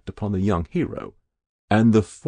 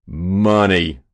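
louder but unraised shocked voice; choked exclamation; 6 dB louder than usual. A narrator's reading. State senator realising what is meant, choked. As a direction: exclaim it, appalled. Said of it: "exclaimed a state senator, choked pale".

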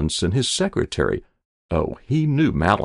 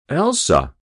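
high, louder call from a sickbed; waking patient; 7 semitones higher, 5 dB louder than usual. A narrator's reading. Patient calling his wife on waking, high urgent call. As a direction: call out for her as if just waking.

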